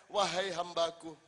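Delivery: a lightly voiced God calling his servants; voicing God. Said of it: "Misalnya Allah mengatakan".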